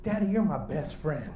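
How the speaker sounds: tender kid to his dad, lightly voiced; grateful little boy. Son to dad, grateful and tender. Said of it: "my son, man, he's so grateful".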